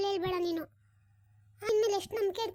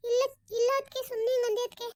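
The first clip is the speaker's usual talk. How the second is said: overacted denial; 4 semitones higher than usual. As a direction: overact the innocent, wailing no. Akshata backpedals.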